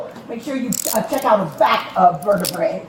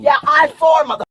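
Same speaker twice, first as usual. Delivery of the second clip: loud cursing yell; angry shout; 3 semitones higher, 4 dB louder, faster than usual. Real, not acted. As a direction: shout at the officers. Struggling during arrest, shouting.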